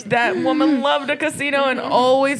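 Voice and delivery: slow, tearful imitation in a small high voice; mock crying. Recalling Maria at her viewing, mock crying. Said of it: "viewing also crying".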